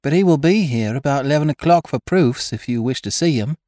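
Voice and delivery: put-on a slightly flustered girl behind the counter; shop girl voice.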